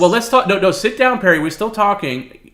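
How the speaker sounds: high, loud, urgent call. Real, not acted. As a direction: stop him walking off, loudly. Pleading with partner walking off.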